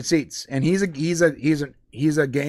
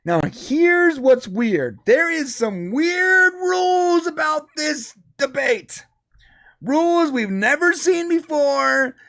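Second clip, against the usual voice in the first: whisper; 10 semitones higher, slower than usual. Acted. Dramatic whispered build-up.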